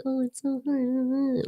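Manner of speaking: high, slow mock whine. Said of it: "be like".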